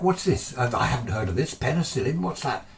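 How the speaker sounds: enthusiastic. Retold or imitated. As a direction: pepper him with curious questions. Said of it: "He's all enthusiastic".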